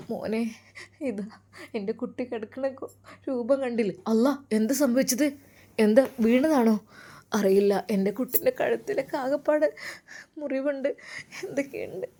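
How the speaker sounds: acted tearful distress; distraught mother. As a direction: voice a mother faltering over her hurt child. Mother finds her son hurt.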